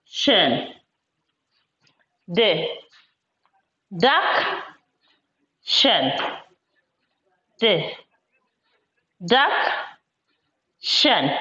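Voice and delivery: each syllable said apart, with a pause. Shown as a demonstration. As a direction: clap out "Shen. D. Duck." beat by beat. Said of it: "this took us three efforts".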